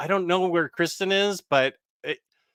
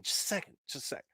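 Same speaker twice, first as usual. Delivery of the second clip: whispering; 2 semitones higher, 14 dB quieter, much faster than usual. Real, not acted. Fading off while taking meds.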